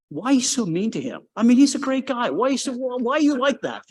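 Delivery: scolding fans. Retold or imitated. Fans scolding Eddie for being mean, mock high voice. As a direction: imitate fans chiding a grumpy analyst.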